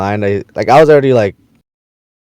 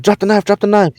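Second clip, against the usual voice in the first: mock cop yell; 9 semitones higher than usual. Cops yelling at armed man.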